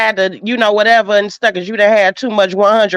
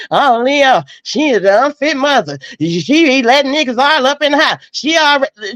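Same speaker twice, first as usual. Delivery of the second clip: mock gossip; 2 semitones higher than usual. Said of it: "start a narrative".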